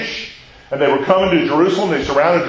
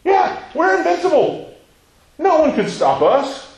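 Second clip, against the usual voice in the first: higher, swaggering Roman boast; boastful Roman; 11 semitones higher than usual. Pretend. Preacher voicing proud Romans, lightly swaggering. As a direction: puff up like an unbeatable empire. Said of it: "what do the Romans think about themselves".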